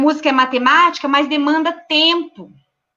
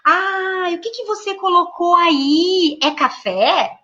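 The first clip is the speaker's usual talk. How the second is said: put-on high, slow, curious teacher voice to a toddler; engaging question to a toddler; 3 semitones higher, much slower than usual. Shown as a demonstration. Teacher asks a toddler about pretend food, curious and gentle. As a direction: draw the child out gently with questions. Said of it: "eu posso falar".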